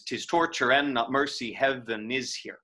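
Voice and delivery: steady beats that stumble on heaven; metronomic reading. Shown as a demonstration. Teacher showing the meter hiccup, evenly beating. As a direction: keep it even, let heaven hiccup. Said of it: "right away we're gonna have a hiccup".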